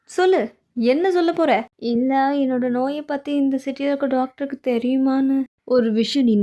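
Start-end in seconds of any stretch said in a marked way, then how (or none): 0.1-1.5 demanding. Acted. Impatient, demanding the explanation, raised voice. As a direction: push them to answer now.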